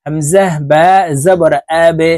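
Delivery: আবে: the বা pushed downward with a jolt; qalqalah bounce. Shown as a demonstration. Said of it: "ধাক্কা দিয়ে উচ্চারণ করতে হবে". (আবে শব্দে বা-তে নিচের দিকে ধাক্কা দিয়ে কলকলা)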